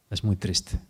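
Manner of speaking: quiet, sorrowful repetition of "es muy triste". Real, not acted. Softer repeat of the same phrase.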